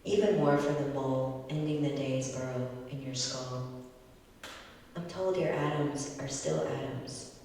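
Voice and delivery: measured, deliberate poetry reading; poem reading. Acted. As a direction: read it like an elegy at a reading. Poet reads elegy poem aloud.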